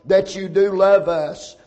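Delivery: praying aloud in steady, flowing phrases; earnest prayer. Real, not acted. Preacher asking the Lord to guide his words, earnest prayer. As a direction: pray earnestly on behalf of the congregation.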